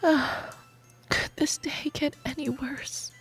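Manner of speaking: slow, whispery grumble; exasperated muttering. Acted. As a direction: grumble it softly under the breath. Groaning at being stuck.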